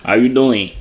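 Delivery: badly faked German accent; fake German accent. Prankster greeting a stranger in disguise, fake German accent. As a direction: put on a vague European accent. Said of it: "The accent. Um, I'm German".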